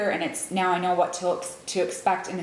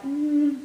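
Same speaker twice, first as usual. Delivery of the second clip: higher, hesitant hum; doubtful mm; 7 semitones higher than usual. Retold or imitated. Friends hiding the real story, doubtful hum. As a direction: imitate a noncommittal "mm". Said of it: "didn't wanna give me the real story".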